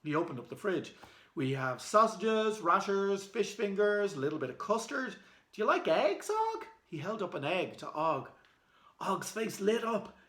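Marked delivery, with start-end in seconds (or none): 1.3-6.7 high, bright listing of food; eager listing. Acted. Boy offering the caveman food from the fridge, eager. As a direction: tempt him with each item.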